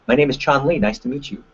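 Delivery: bright, assertive handshake hello; strong confident introduction; confident greeting. Shown as a demonstration. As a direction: greet them like you mean it. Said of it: "you've gotta be just as loud".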